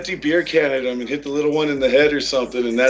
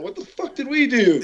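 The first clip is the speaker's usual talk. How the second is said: mock indignant; 8 semitones higher than usual. Mocking their own reaction to booing.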